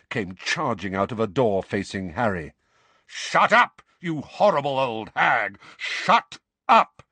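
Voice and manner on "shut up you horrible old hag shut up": loud, high furious shout; roaring. A narrator's reading. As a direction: roar her into silence. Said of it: "he roared".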